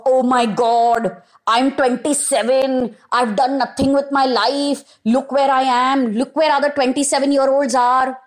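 lightly panicked self-talk; a touch of mock panic. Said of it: "this panicked role play".

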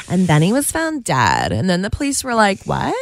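lilting, lightly mocking true crime read; a hint of sing-song storytelling; mock sing-song narrator. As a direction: make fun of a breathy podcast host. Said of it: "talk, like, in a sing-song voice".

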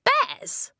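very high, scoffing yelp. A narrator's reading. Blue scoffs at her friends' walking problem, high-pitched. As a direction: scoff it high on one word. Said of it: "Blue scoffed".

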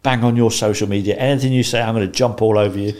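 mildly heated mock rant; retold ranting. Imitating caller threatening social media replies, mildly ranting. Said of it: "he was ranting at me".

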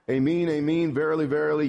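solemn scripture. Real, not acted.

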